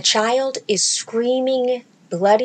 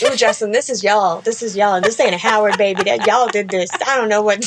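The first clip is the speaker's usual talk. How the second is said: teasing blame; 4 dB louder than usual. Retold or imitated. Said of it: "I'd be like".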